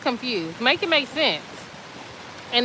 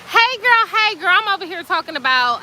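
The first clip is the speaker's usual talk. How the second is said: excited greeting; 6 semitones higher than usual. Real, not acted. Greeting her viewers, excited hey girl. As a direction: call out to your viewers happily. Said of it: "greets viewers excitedly".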